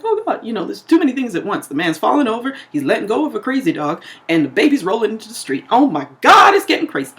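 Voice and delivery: lightly acted panicky rush; flustered lady. Voices the overwhelmed lady.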